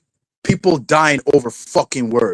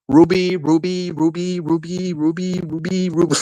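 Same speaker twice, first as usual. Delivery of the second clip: softer, repetitive mock calling; Grace; 3 semitones higher, 3 dB quieter than usual. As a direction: repeat the name in a put-on, even chant. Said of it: "Imagine if that was Grace saying that".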